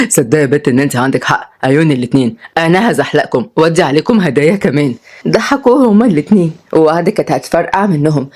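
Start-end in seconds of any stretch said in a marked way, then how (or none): 0.1-4.9 put-on lower-pitched old grandad, carefree and teasing; low grandfatherly banter; wry grandfather. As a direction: play a cheeky grandpa in a low voice.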